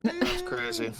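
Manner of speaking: high, loud jeer; loud heckling of Harvey; mock booing. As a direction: boo the witness from the gallery. Gallery booing witness.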